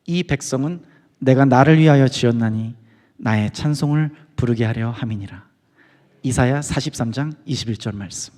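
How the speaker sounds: slow, low, measured verse reading; scripture recitation. Retold or imitated. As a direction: imitate a leader solemnly reciting a verse. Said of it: "말씀 한 구절을 탁 읽는데". (낮고 느리게 성경 구절을 낭독하듯)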